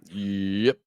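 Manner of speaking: token attempt at a Southern drawl; hesitant mock-Southern American twang; Southern American accent. Shown as a demonstration. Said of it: "I've tried doing an American accent before".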